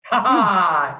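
teacher showing fire energy to interviewer, fiery; punchy fiery vocal burst. Shown as a demonstration. A teacher demonstrating fire's vitality, fiery. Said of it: "good for awakening your physical vitality".

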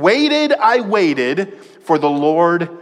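"Waited" pitched very high, then "I waited" drawn out slowly; emphatic repetition. Shown as a demonstration. Preacher quotes David's opening to the church, "Waited" stressed. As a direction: hit "Waited" high, stretch "I waited for the Lord". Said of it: "he starts off by saying".

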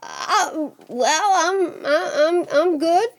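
put-on flustered boy stalling; nervous stammer. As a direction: stumble over a wary reply. Jack nervously answers Death.

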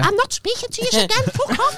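squeaky high mock tantrum; childish sulk. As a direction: play the sulking kid storming off, very high. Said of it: "and I was like".

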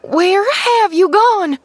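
high, loud panicked calling; frantic searching cry, rising in pitch; frightened cry. A narrator's reading. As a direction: call out in mounting alarm. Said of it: "she gave a frightened cry".

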